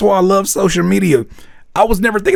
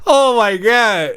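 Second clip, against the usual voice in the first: words squeezed out mid laugh; laughing hard; 7 semitones higher, slower than usual. Real, not acted. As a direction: still laughing, slowed and breathy from it. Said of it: "that shit had me in tears".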